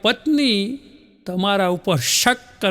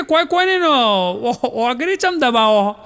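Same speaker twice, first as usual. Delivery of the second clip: higher, slowed mock coy wife; wife teasing husband, mock coy and higher; 4 semitones higher than usual. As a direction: play the bashful wife, drawn out. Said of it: "પત્ની કે".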